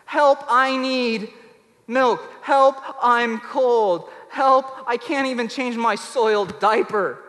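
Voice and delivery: put-on loud, slow, pleading baby cry; drawn-out, needy wail for help; infant crying out. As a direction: call out like a helpless infant in need. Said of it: "the first guttural cry of reaching out, going".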